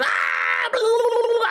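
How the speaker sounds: high shouted blah blah; hammed-up kid yells; mock yelling kids. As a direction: mimic kids screaming on monkey bars.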